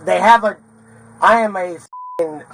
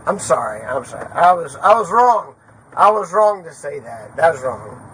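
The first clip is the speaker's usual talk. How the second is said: real remorseful apology; 3 semitones lower than usual. Real, not acted.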